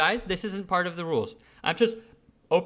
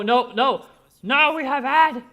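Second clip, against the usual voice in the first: higher, louder alarmed no; surprised protest; 10 semitones higher, 9 dB louder than usual. Real, not acted. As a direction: yelp at the sudden ad. An ad pops up unexpectedly.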